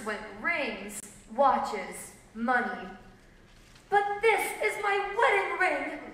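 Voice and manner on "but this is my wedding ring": higher-pitched, mildly tearful protest; tearful plea. A narrator's reading. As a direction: plead with a touch of tears. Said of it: "cried one woman tearfully".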